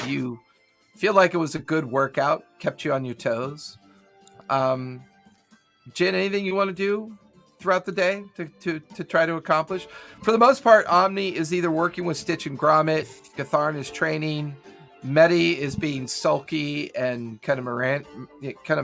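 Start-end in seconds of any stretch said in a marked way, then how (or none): none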